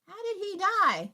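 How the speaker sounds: the news hits you out of nowhere; retold shock at learning he died; stunned surprise. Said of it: "I was like".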